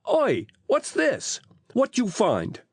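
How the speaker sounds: high, slow surprised cry. A narrator's reading. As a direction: act startled at a find. Phil feigns surprise.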